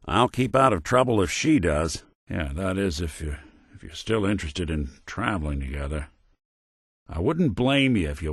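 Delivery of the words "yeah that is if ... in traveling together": low, halting and unsure; tentative offer. Acted. Companion asking to keep traveling together, tentative. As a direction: stumble gently into the question, voice lowered.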